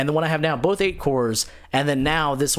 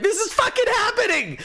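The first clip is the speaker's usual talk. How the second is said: much higher, laughing determination; frantic vow. Retold or imitated. Builder driving home swearing it's happening, frantic. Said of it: "I'm like".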